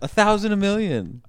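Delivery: high-pitched incredulous echo; mocking disbelief. Real, not acted. Co-host teasing friend over a made-up number, incredulous.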